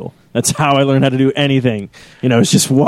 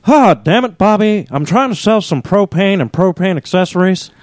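higher-pitched exasperated cartoon dad; Hank Hill; 5 semitones higher than usual. Dad scolding Bobby while selling propane, high exasperated voice. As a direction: put on a fed-up cartoon dad impression. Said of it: "Dueling Hank Hills".

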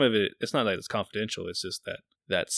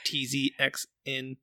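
alien voice; 5 semitones higher than usual. Pretend. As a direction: welcome them like a spaced-out alien. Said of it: "That sounds like an alien".

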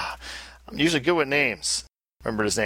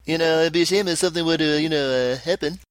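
hint of a thug, fast and higher; smiling threat; 4 semitones higher, faster than usual. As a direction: lean in with a sweet menace. Mock thug veiled threat.

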